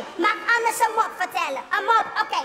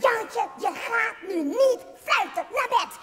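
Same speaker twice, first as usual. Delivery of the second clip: grandpa scolding; 3 semitones higher than usual. Acted.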